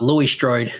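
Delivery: "Laurie Strode" said with a faint Australian lilt; accidental hint of an Australian accent. Real, not acted. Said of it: "I said that like an Australian".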